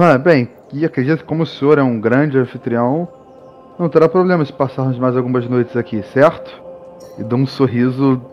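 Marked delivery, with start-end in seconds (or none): 0.0-6.6 sneering fake sweet. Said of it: "com um tom de deboche".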